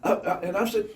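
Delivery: talking through laughter; high, giggling as you tell it; can barely get the words out for laughing. Real, not acted.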